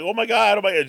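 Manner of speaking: high-pitched imitation of an excited child; mock losing it. Owner imitating little girl seeing cat outside, excited squeal. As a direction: squeal it like a thrilled little kid. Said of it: "The kid's, like, losing it".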